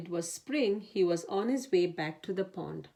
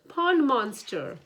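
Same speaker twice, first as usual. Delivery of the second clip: high, loud slow alarm; higher alarmed cry; 6 semitones higher, 5 dB louder, slower than usual. A narrator's reading. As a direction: climb higher in panic on the repeat. Panicked alarm, higher repeat.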